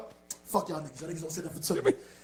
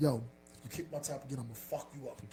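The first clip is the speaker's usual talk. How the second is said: put-on deadpan, straight-faced, lower and quieter; 5 semitones lower, 10 dB quieter than usual. Retelling a warning from someone about kicking his top: imitating a deadpan threat. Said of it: "he said it with a straight face".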